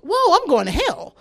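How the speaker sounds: drawn-out, hammed-up realization of doom; alarmed. Panicked realization while falling, retold.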